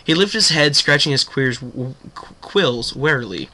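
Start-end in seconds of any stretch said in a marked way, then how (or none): none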